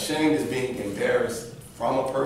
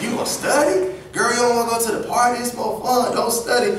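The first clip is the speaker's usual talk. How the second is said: teasing peer; 8 semitones higher, 3 dB louder than usual. Retold or imitated. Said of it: "they try to tell you".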